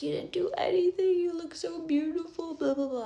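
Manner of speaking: high sing-song mom voice; gushing drunk mom. Retold or imitated. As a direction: coo it like a tipsy mother.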